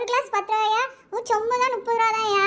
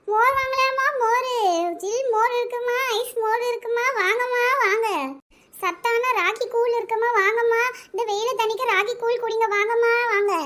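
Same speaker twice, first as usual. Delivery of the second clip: singsong street hawker; 3 semitones higher than usual. Acted. Mother hawking buttermilk again.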